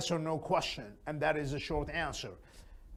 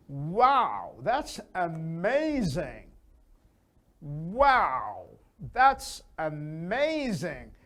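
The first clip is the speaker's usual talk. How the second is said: louder, slow "Wow, that's amazing"; excited; 4 dB louder, much slower than usual. Shown as a demonstration. Teacher showing the interested way, excited. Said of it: "Completely different".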